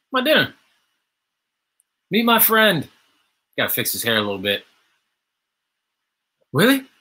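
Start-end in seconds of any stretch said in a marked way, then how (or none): 0.1-2.9 excited showing off. Real, not acted. Presenting her things playfully. 6.5-6.9 surprised. Real, not acted. Surprised at the reaction.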